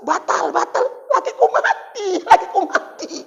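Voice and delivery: mock widow, high, laughing over her dead husband. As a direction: giggle through it like a careless widow. (janda pura-pura tertawa)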